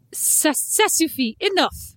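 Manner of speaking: half-joking French telling-off; mock stern French. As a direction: scold slowly in French, lightly.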